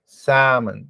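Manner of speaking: Salmon with a silent L, said samon; model pronunciation. Shown as a demonstration. Teacher models the correct English word for students, slowly and clearly. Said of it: "pronuncia novamente comigo".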